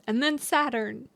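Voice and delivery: talking through a burp; a burp caught mid-sentence. Real, not acted. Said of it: "I'm burping, guys".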